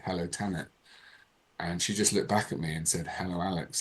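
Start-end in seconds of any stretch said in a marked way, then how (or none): 0.0-0.7 soft, understated greeting; telepathic greeting. Retold or imitated. To the goddess as she touches him, telepathic greeting. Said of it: "telepathically, I just said". 3.1-3.8 soft, understated reply; telepathic reply. Retold or imitated. Goddess answers him without speaking, telepathic reply. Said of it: "like that, without speaking".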